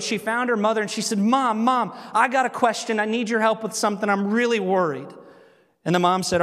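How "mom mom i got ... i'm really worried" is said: higher, mock-anxious child voice; panicky little girl. Little girl runs to her mom in mock panic. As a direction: voice a worried girl rushing to mom. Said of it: "And in this panic mode".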